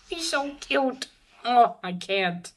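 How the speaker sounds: high gush, slowing as it lands; cuteness overload. Real, not acted. Reviewer swooning over little Pochita's picture, gushing. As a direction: overcome by how cute it is. Overwhelmed by cute Pochita art.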